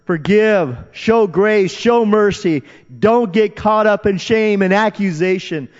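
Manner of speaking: high, loud, urgent pleas from the stands; yelling exhortation. Acted. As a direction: shout each appeal like a rallying cry. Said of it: "they're yelling to us".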